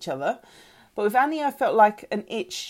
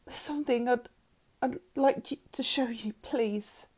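halting, whispery request; hushed plea; 5 semitones higher, 4 dB quieter than usual. A narrator's reading. Mother asking to show daughter something, hushed. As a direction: ask falteringly, almost whispering. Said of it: "her change of tone".

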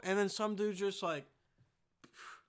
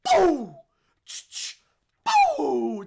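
sudden shouted boo; loud boo; 7 semitones higher, 16 dB louder than usual. Pretend. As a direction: startle with a yell. Mock shooting scare.

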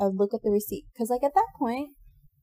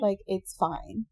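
disappointed; 2 semitones lower, 4 dB quieter, slower than usual. Retold or imitated. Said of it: "in that disappointed way".

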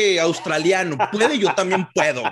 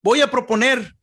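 campaign speech voice; 2 semitones higher than usual. Pretend. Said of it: "le dan ese tonito acá".

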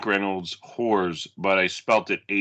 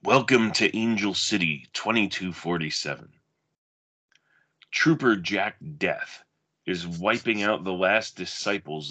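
dramatic blurb reading, measured pace; movie blurb read. Acted. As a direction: read it like a video box cover. Reads a movie back cover.

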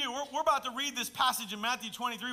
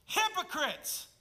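stretched-out high call of the word; loud; 10 semitones higher, 3 dB louder, slower than usual. Shown as a demonstration. Preacher crying out the word to the congregation loudly. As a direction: cry it out to the crowd. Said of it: "It has to be said loud".

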